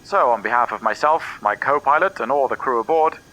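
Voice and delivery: lightly voiced captain's cabin announcement; airport announcement. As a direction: read it like a pilot on the intercom. Pilot's cabin address.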